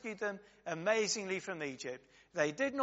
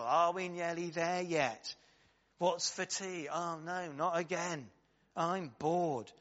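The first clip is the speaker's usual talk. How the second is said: whinging people. Retold or imitated. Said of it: "this whinging bunch of people".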